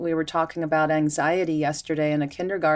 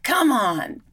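higher, louder exasperated come on; mock frustrated plea; 8 semitones higher, 4 dB louder than usual. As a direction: plead at the carrot, fed up. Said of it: "you get angry at the carrot".

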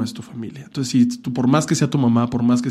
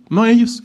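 NO ellos punched high and loud; emphatic no; 9 semitones higher, 4 dB louder than usual. Real, not acted. Telling viewers parents aren't the victims, high emphatic. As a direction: slam the contrast on ellos.

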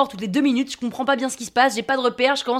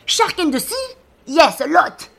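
high, raised-voice halting English; hollered to captain; 5 semitones higher, 4 dB louder, slower than usual. Acted. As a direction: call it out over the waves. Calling to captain about sharks.

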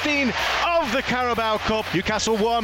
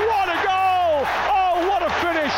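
raised, excited goal call; long goal yell; 3 semitones higher than usual. Real, not acted. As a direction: shout the goal with delight. Commentator reacts live to a goal.

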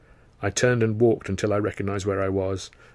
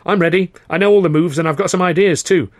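loud, higher, keen; eager; 9 semitones higher, 9 dB louder than usual. Acted. Chaplin pitching himself to Karno, eager and loud. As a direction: sell yourself fast.

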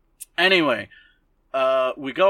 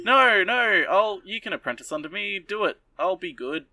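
eager pleading; 7 semitones higher than usual. Retold or imitated. Witch begging Elena to apprentice under her, eager and high. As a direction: beg like an overeager teacher.

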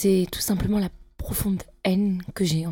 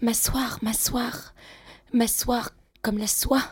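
dreamy whispered recital, higher; poetic whisper; 4 semitones higher, slower than usual. Acted. The patient reciting her seat like a poem, whispered. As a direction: savour each word like verse. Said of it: "vous faites de la poésie?".

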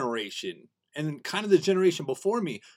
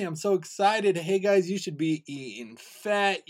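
eager, higher and louder at first; so excited; 4 semitones higher, 4 dB louder, slower than usual. Retold or imitated. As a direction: relive bursting to tell friends the news.

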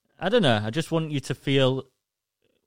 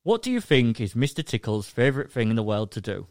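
put-on reading to children; 3 semitones lower than usual. Reads children's book aloud.

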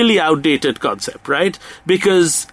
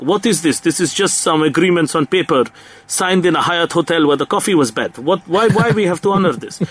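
put-on a half-hearted Russian accent; barely-there mock Russian accent; bad Russian accent. Russian accent mocking Moscow diplomats after treaties. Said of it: "the worst Russian accent in the history".

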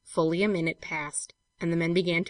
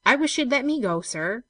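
higher, earnest plea to the master; raised, pleading servant voice; plucking up courage; 6 semitones higher, 4 dB louder than usual. A narrator's reading. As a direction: speak up with courage, pitched higher. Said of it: "plucking up courage to address him".

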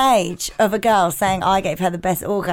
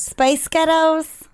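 "Space Ghettos" drawn out slowly so it sounds like a spaceship; accent hack, slow; 4 semitones higher, much slower than usual. Shown as a demonstration. Co-host slowly repeats "Space Ghettos" as an accent hack. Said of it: "My favourite is still Space Ghettos".

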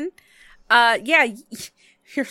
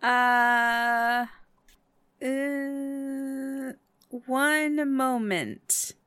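hesitant nurse; 6 semitones higher, much slower than usual. Acted.

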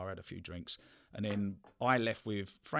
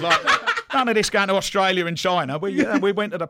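laughing; 10 semitones higher, 9 dB louder than usual. Real, not acted. Laughing about Amsterdam trips.

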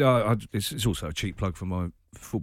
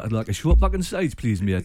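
mock customer; 3 dB louder than usual. Acts customer at Andy's barbershop.

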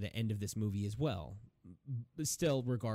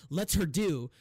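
exasperated complaint; 7 semitones higher, 4 dB louder than usual. Retold or imitated. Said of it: "he's like".

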